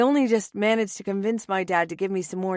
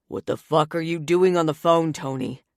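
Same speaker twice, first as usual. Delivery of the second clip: louder yelled question; mildly acted yell from a man in the background; 3 semitones lower, 4 dB louder than usual. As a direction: shout it across the room. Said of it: "Roman yells in the background".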